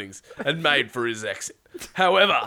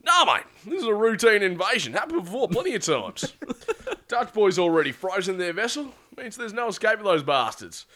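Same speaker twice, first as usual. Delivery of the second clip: raised-pitch breezy leader voice; confident, reassuring; 5 semitones higher, 3 dB louder than usual. Acted. Leader reassuring his worried crewman about the invasion, confident. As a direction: brush the worry off with easy confidence. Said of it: "real confident and re-, really reassuring".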